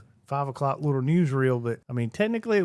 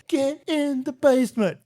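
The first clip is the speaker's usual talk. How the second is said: high, urgent command to take cover; urgent warning; 13 semitones higher, 4 dB louder than usual. Pretend. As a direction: bark it like a real tornado alarm. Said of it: "if East ever comes on and says".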